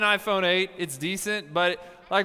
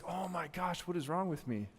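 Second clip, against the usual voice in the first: much softer, muttered self-disgust; hushed dismay; 4 semitones lower, 12 dB quieter than usual. Retold or imitated. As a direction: say it quietly to the mirror. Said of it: "you're just like".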